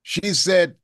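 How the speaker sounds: usual speaking voice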